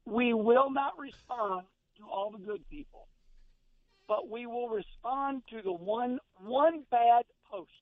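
slow, spaced out words; slow and deliberate. Shown as a demonstration. Talking to himself, saying it slowly so he hears it. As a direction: spell it out slowly to yourself. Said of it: "I'm gonna say it slow so I can hear myself".

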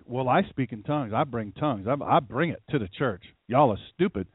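1 mock arrogant believer. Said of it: "I don't think they talk like that".

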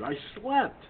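a yawn swallowing the words. Real, not acted. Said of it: "about the yawning".

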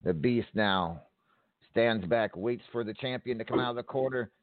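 brisk play-by-play call; wrestling commentator. Acted. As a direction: call the match blow by blow. Calls the match play by play.

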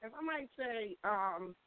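distant, faint phone line; like talking from another room; sounds far away. Real, not acted. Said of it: "you sound so far away".

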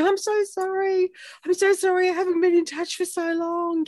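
hammed-up sorry friend; gushing apology. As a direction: play the friend fussing over lost touch.

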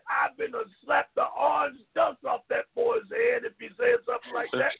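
heated, rising rant; angry rant. Real, not acted. Cohost ranting at a Trump fan on air, angry. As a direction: vent it hard at the caller.

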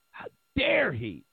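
whispered, scandalised gasp of a line; mock-horrified whisper; mock outraged whisper. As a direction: hiss it like a shocked gossip. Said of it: "Got everybody just beside themselves".

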